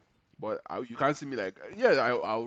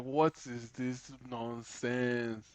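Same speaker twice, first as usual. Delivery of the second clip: drawn-out, dismissive question, slow; slow scorn; 5 dB quieter, much slower than usual. Retold or imitated. To his brother about One Piece, slow scornful question. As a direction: drag it out like it insults you. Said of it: "I was like".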